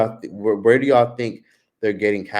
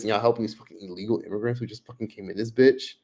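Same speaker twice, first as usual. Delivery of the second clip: ordinary delivery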